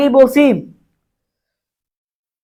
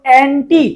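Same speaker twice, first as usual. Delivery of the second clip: অ্যান্টি with the টি brought out clearly; stress on টি; slower than usual. Shown as a demonstration. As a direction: lean on the টি in অ্যান্টি. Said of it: "টি বেশি উচ্চারণ হচ্ছে". (অ্যান্টি-র টি-তে জোর)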